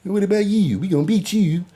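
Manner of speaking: mocking Baltimore accent. Mocking a Baltimore fan taunting Houston, in a teasing Baltimore accent. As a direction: poke fun at how Baltimore fans talk. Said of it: "Why do y'all talk like that?".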